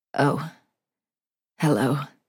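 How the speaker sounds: hoarse, raspy, cracking voice. A man just woken by a bang greets the woman beside him, raspy, cracked voice. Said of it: "he says in a raspy, cracked voice".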